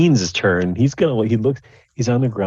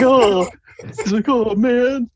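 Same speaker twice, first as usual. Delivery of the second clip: much higher, louder squeal of fright; squeaky yelp; 4 dB louder, slower than usual. Acted. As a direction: yelp like a scared runt. NPC squeals fleeing kick.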